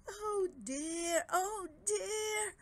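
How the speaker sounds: high, whining dragon moan; groaning dragon. Acted. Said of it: "groaned Dragodad".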